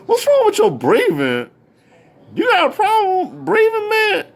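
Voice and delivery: high mock-exasperated questioning; retold exasperated challenge. Fan asking Big about his breathing, exasperated. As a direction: blurt the complaint, voice leaping up.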